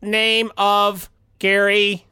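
robot voice. Acted. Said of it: "Robot Tim".

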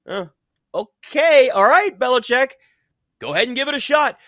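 high, loud mock go-ahead; high-pitched, sceptical okay-then; doubtful acted reaction. Voices a sceptic answering the coach.

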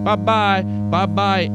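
high, loud dismissive bye-byes; mock cheery dismissal; imitating Todd's goodbye. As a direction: send them packing, loud and high. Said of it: "Todd's like".

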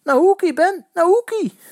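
high, loud screamed plea; shrieking. A narrator's reading. Eddy shrieking at Ben from the sideline, loud scream. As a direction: scream at the player to pass.

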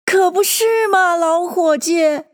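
high, slow drawn-out agreement; chorus of animals. A narrator's reading. Animals agreeing with old Bill, in chorus. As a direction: chime in together, high and stretched. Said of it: "大家都齐声道".

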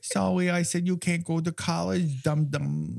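high, sing-song fake apology; mock-sweet voice. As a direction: sweetly fake sorry, really a jab. Mocking Cheryl's fake apology.

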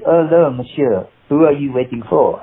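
lightly voiced elderly French accent; old French man. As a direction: put on a hint of an old Frenchman. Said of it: "he was an old French guy".

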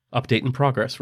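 flat computer announcement; automated voice. Acted. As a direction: read it like a system message. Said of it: "replied the automated voice".

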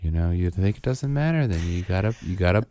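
patronising lecture with drawn-out pauses; mock a slow, endless scolding about dental care; slow, nonstop lecturing. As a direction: imitate a condescending hygienist droning on. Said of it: "so slowly and nonstop was like".

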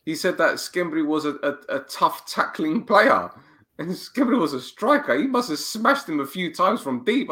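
ordinary talk, nothing marked

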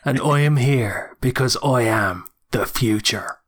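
slow, deliberate Wicklow accent; Irish accent from Wicklow, drawn out slowly. Shown as a demonstration. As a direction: introduce yourself in a measured Wicklow accent. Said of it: "can you do a Wicklow accent".

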